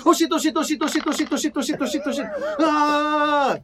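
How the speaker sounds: rapid high panicked chant bursting into a loud scream; Ringo. Acted. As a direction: repeat it in spiralling panic, high-pitched. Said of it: "Han bara".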